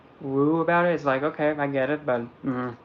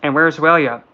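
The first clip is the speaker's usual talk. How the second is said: surprised greeting; 2 semitones higher, 7 dB louder than usual. Retold or imitated. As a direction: greet an old friend by surprise. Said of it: "It's like".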